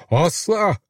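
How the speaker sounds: high, sharp outcry of refusal; cried out. A narrator's reading. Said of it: "diye haykırdı Vahşi".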